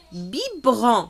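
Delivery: "Biberon" said clearly as bi-be-ron for repeating; model word. Shown as a demonstration. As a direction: model "Biberon" for the class to echo. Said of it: "Répétez le mot après moi". ("Biberon" articulé lentement)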